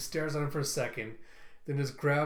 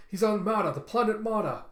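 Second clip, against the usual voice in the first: high, loud panicked confession; scared blurting; 7 semitones higher, 6 dB louder than usual. A narrator's reading. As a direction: blurt it out in fright, pitched way up. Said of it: "Kwan starts getting scared as he goes".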